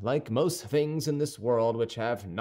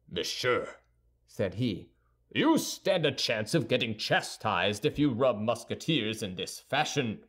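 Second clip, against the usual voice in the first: mild anger; 2 semitones lower than usual. Acted. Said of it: "giving way to his anger".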